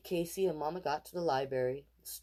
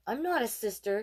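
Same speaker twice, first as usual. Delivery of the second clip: put-on protesting boy; 7 semitones higher, 5 dB louder than usual. A narrator's reading. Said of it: "Casey said".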